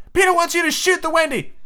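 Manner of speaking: very high, squeaky fairy voice; shrill little pixie cry; shrill Tinkerbell. A narrator's reading. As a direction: pipe it out shrilly like a tiny fairy. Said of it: "shrill voice of Tinkerbell".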